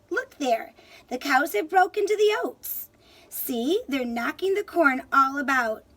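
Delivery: sharply. Acted. Leprechaun telling Tom off sharply, mildly acted. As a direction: snap back at the pestering lad. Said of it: "answered Tom sharply".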